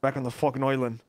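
badly faked British Isles accent; terrible mock British accent. Teasing the lawyer, bad British accent. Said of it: "That's the worst accent I've ever heard".

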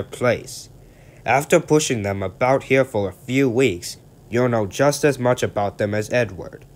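put-on a boss setting a young engine straight; lecturing director.

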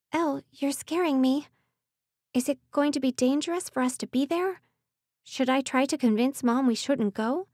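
put-on a worried girl pleading; frightened young woman. Worried stepsister voice.

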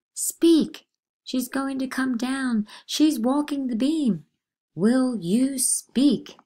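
high, loud frantic pleading; panicked cries. Acted. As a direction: cry out as if she is about to fall. Terrified girls crying out.

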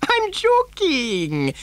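very high, long-drawn tease; mad giggly glee. A narrator's reading. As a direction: stretch it out, high and gleeful. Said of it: "giggling madly behind his beard".

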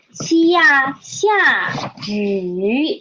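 teacher breaking 下雨 into two syllables. Shown as a demonstration. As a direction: split 下 from 雨 and stress 下. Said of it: "First word is 下雨".

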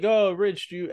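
light hammed-up Italian accent offering a drink. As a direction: imitate an old Italian grandfather's Italian accent. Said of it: "he's a thick Italian accent".

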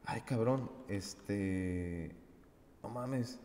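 quiet, dazed "no mames"; stunned quiet curse. Retold or imitated. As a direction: breathe it out in disbelief. Inner panic thought while high.

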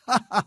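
a loud, high cackle of scorn; shrill mocking laugh. A narrator's reading. Landowner scoffing at the engineer's offer with a high laugh. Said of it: "zaczął się śmiać krzykliwie".

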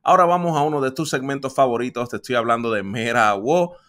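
loud, upbeat radio host voice over music; radio announcer intro. Acted. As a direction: sell the segment like a radio host. Host opens radio segment. (presentador de radio entusiasta y fuerte)

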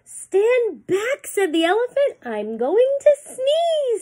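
high, loud trumpeting elephant; elephant's warning. Acted. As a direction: warn everyone to stand back. Reading aloud to children.

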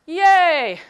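high, loud playful yay; a hammed-up little victory cry; mock cheer. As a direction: celebrate like a kid.

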